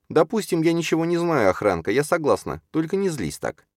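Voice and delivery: high, pleading character voice; conciliatory Чарна. Acted. Чарна backs down so Юрген won't be angry, conciliatory. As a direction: give in quickly, pitched well up.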